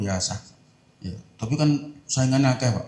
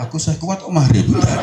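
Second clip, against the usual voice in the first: loud, laughing fake bravado; laughing mock boast; 5 semitones higher, 6 dB louder than usual. Fasting man laughing at his own boast. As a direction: brag through laughter, then deny.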